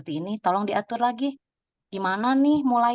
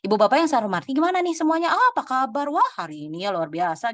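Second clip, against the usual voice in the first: over-the-top MC opener; 5 semitones higher, faster than usual. Shown as a demonstration. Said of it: "gini, gini, gini".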